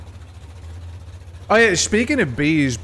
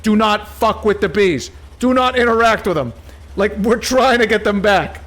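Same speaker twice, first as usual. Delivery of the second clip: raised, urgent warning voice, higher and louder; mock official warning; 7 semitones higher, 6 dB louder than usual. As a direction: shout it like a panicked official. Officials warning about bees.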